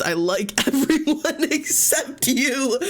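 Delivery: high, slow, dissolving into giggles; words broken by real laughter; laughing. Real, not acted. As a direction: try to read it but crack up. Reading trope, breaks into laughter.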